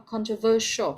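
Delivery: "Controversial" ending in a clear "shuh"; English sh sound. Shown as a demonstration. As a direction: model contro-VER-shuhl for "Controversial". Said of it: "vị trí khác nhau nó sẽ ra âm khác nhau".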